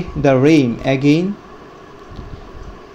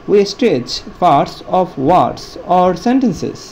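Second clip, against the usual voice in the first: very slow, every word drawn out; stretched out slowly; 2 semitones higher, much slower than usual. Shown as a demonstration. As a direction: model the stretch for the class, word by word. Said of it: "stretch অর্থ হলো উচ্চারণে জোর দেওয়া". (শব্দ টেনে টেনে খুব ধীরে বলা)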